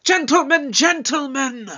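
insistent appeal for order; calling to order. Acted. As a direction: cut in over the argument, pitched high. Breaking up a quarrel.

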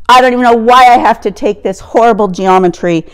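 put-on a teenager griping to her dad about geometry; in a huff. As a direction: huff and gripe through it. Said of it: "In a huff".

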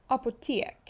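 «апотек» with a long open A, like «апотек»; Swedish apotek. Shown as a demonstration. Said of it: "шведською вимовляється як".

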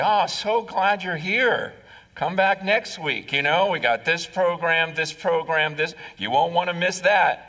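mock eager pastor. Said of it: "He didn't say".

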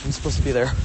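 panting while talking; out of breath. Real, not acted. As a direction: talk out of breath after rushing. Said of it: "I'm, like, really out of breath".

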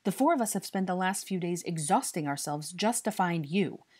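loud, high-pitched tirade; angry scolding. A narrator's reading. Harry scolds the boy he tracked down, furious. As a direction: lay into him with mounting exasperation.

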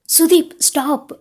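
laughing plea to stop; laughing protest. A narrator's reading. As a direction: squeal stop while being tickled. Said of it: "ಸುತ್ತಲೂ ತಿರುಗುತ್ತಾ ನಗುತ್ತಿದ್ದಾಳೆ".

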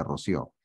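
roció stressed on the last syllable, ro-SIÓ; stress on final O. Shown as a demonstration. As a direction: land on the ó of roció. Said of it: "no lleva tilde en la O".

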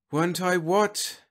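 high, slow, bewildered question; drawn-out, high-pitched misery; miserable. A narrator's reading. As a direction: ask it slowly, lost and miserable. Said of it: "Whitlow asked miserably".

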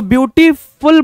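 ब्यूटीफुल split by a slight pause before फुल; slight mid-word pause. Shown as a demonstration. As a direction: say ब्यूटीफुल in two parts, ब्यूटी, then फुल. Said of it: "आपको एक हल्का सा pause लेना पड़ता".

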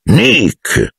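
high hailing cry; stentorian call. A narrator's reading. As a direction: hail him grandly across the room. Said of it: "tuonò con voce stentorea".

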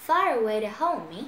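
"to" weakened between "away" and "hold"; reduced TO. Shown as a demonstration. Teacher shows learners the reading, "to" reduced. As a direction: link "far away to hold me", "to" unstressed. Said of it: "Thì mình sẽ đọc là".

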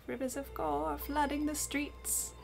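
a sweet granny turning sinister; creepy granny. Acted.

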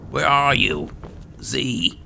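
loud, high call for a companion. Real, not acted. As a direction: shout to someone out of sight. Calling out for missing companion.

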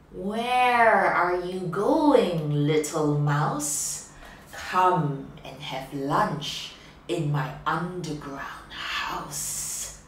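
slow, loud, coaxing fox voice; the fox sweet-talking his lunch, drawn out; sly fox. Acted. Fox coaxing the mouse to his den, slow and loud.

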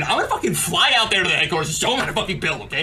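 fast laughing rant; raging gamer laughing. Real, not acted.

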